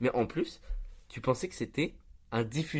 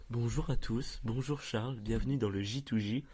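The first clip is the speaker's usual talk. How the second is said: Marc; slower than usual. Acted. Mocking Marc's podcast welcome, increasingly slow and drawn out. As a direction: imitate a host, slowing right down at the end. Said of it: "Ça, c'est Marc qui parle comme ça".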